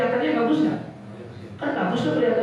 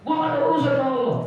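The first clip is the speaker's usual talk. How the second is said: angry retort; 3 semitones higher, much faster than usual. Retold or imitated. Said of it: "Bisa gitu nggak?".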